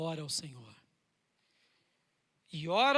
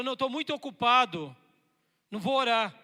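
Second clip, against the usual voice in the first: busy excuse; 5 semitones higher, 9 dB louder than usual. Acted. Believer excuses himself from prayer.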